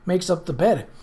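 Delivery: put-on worried servant girl pleading; anxious maid voice. Nettie fretting, higher voice.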